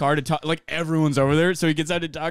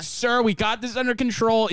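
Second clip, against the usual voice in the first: higher-pitched imitation of confident staff; self-assured staffer; 5 semitones higher than usual. Veteran staff to arriving cop, imitated assurance. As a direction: act out waving off an officer.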